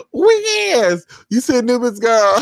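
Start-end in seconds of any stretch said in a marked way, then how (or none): 0.1-1.0 high, loud emphatic yes; sassy repeat of the catchphrase, higher and louder; louder sassy agreement. Retold or imitated. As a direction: belt it out with attitude. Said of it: "I'm like".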